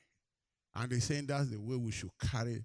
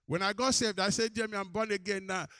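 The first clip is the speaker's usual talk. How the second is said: loud, high-pitched retold outburst; big, elated re-enactment; excited announcement; 10 semitones higher, 7 dB louder than usual. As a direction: proclaim the news at full voice, high and urgent. Retold announcement of being saved.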